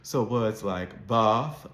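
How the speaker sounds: bath with a long open ah; slow, say bath as bahth; Southern British bath; British broad A. Shown as a demonstration. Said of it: "Southern Standard British English".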